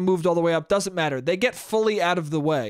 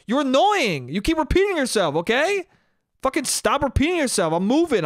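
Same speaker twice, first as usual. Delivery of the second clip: higher, exasperated mock retort; mock irritation, pitched up; annoyed retort; 5 semitones higher than usual. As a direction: imitate someone fed up and snapping back. Acting the irritated woman in the car.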